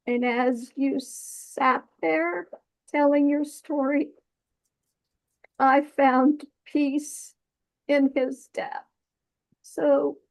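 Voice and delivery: real, halting emotion with long pauses between phrases; choked up but holding it together; fighting back tears. Real, not acted. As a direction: hold back the tears, pausing to keep composure. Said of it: "trying to fight back the tears".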